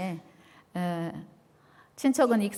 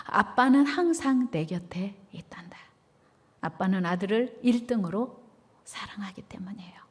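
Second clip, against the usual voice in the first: tender whisper. Retold or imitated. Father comforts son.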